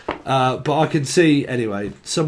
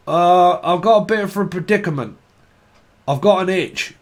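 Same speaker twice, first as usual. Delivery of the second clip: awkward request; 5 semitones higher, 5 dB louder than usual. Retold or imitated. Patient voiced in bit.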